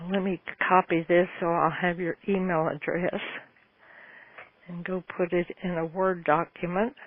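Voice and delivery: slight lisp around a retainer; talking with retainers in; wearing a retainer. Real, not acted. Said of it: "I'm trying to talk with my retainers in".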